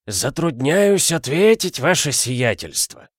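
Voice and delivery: lightly voiced butler, slow and dignified. A narrator's reading. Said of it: "с достоинством ответил дворецкий".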